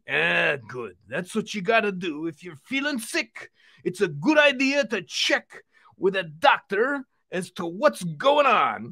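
upbeat puppet fitness host; Uncle Vino puppet voice. Pretend.

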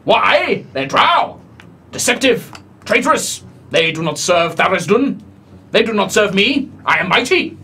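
contemptuous god of darkness; haughty dark god. Acted. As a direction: sneer like a chained deity. DM voicing dark god Tharizdun.

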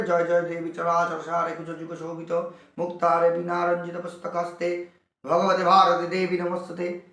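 even, monotone Sanskrit chant; prayer recitation. Shown as a demonstration. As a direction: recite the hymn steadily on nearly one note. (একটানা সুরে স্তোত্র পাঠ)

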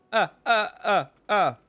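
high, loud put-on accent with laughs; mock accented laughing voice. Streamer answering a joke in a silly laughing accent. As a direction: ham up a foreign character laughing.

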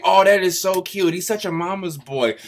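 mocking gushing viewers. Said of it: "y'all probably think".

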